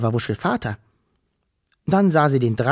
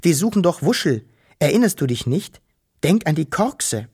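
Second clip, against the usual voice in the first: put-on higher girl's voice, urging; girl urging the dragon to remember; Wischel calling; 4 semitones higher than usual. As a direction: remind him eagerly. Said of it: "rief Wischel".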